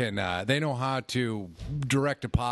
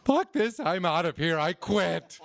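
angry quitting; 4 semitones higher, slower than usual. Retold or imitated. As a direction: throw it down and walk off. Student storms off.

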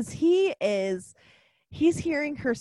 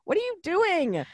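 suddenly higher, incredulous repeat; exasperated mock plea; 7 semitones higher than usual. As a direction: let the pitch jump in exasperation. Same question repeated in exasperation.

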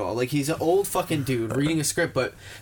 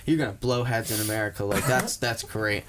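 low gun-lobby guy; 4 semitones lower than usual. Retold or imitated. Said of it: "he's like".

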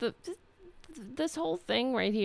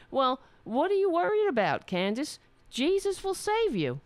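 louder, higher mock voice; mocking anti-masker; 6 semitones higher, 4 dB louder than usual. Mocking the customer.

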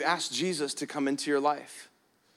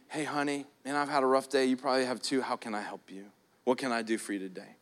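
gentle kind husband; 4 semitones lower, 5 dB quieter, faster than usual. Retold or imitated. Gentle husband contrasted with grumpy.

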